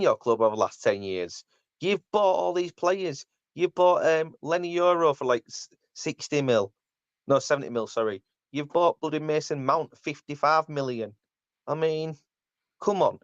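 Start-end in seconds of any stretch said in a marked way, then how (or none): 1.8-13.2 pitched-up exasperated telling-off; worked-up football fan ranting at a rival pundit; indignant rant. Real, not acted. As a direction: have a go at him, voice climbing higher.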